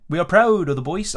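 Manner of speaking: lightly voiced impression of the manager; proud manager at a press conference, lightly mimicked; Oli impression. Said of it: "do an Oli monologue".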